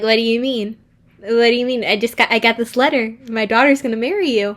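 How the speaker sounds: a hint of a bewildered mom; mock confused mom. Mother confused that the groom denies it, flustered. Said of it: "she's like".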